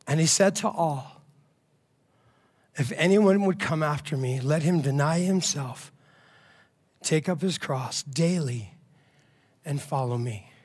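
solemn scripture reading. Acted. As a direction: read the verse gravely, pausing between phrases. Reads scripture aloud to the group.

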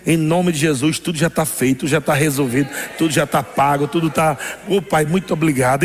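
a low, confident voice of faith. Retold or imitated. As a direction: say it with settled, low assurance. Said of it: "a fé fala nesse momento".

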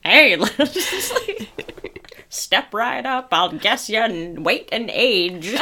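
put-on slow old-timey barker call; carnival barker. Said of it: "a different type of old-timey voice".

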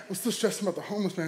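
soft mumbled mock gloom; downcast. Driver confessing stress to girlfriend, downcast. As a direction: repeat it small and dejected. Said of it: "I'm still sad, downcast".

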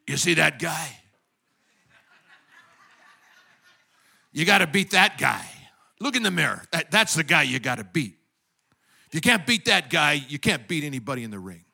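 lightly voiced boxing trainer, pressing the point; a hint of a movie coach's challenge; Rocky. Trainer to his fighter at the mirror, lightly acted challenge. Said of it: "where Rocky takes Creed over to a mirror".

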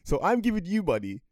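loud, high, baffled questioning, stumbling with laughter; laughing disbelief. Retold or imitated. Son questioning mum's money scheme, laughing in disbelief. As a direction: demand an explanation through incredulous laughter. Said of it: "I remember laughing when she described".

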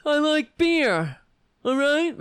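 loud and high, slowed indignant yell; shouted Kavanaugh impression. Mocking Kavanaugh's angry testimony, loud and high. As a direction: bark it out defensively. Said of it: "Kavanaugh is like that".

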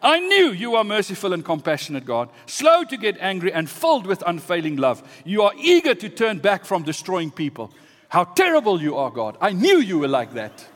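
mildly heated, mounting accusation; indignant complaint. Acted. Jonah accuses God of compassion, indignant. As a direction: list virtues as if they were faults. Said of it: "he complained to the Lord".

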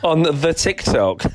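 teasing repeat, slow and pointed. Real, not acted. Teasing his co-host for sounding old, slow mocking echo. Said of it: "Oh, God, I am old".

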